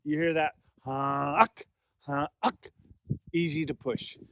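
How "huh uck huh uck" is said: goose honk. Shown as a demonstration. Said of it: "because I'm humming".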